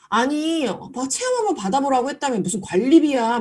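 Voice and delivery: imitating a customer's exasperated snap; mock angry outburst. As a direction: customer scoffing at being charged, half-hearted mock anger. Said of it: "엄청 화를 내시더래요".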